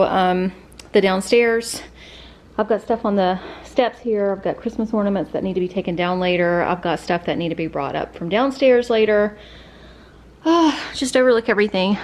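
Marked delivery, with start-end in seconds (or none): 2.6-12.0 breathless after the stairs; winded, catching breath between phrases. Real, not acted. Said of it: "Sorry, I'm out of breath".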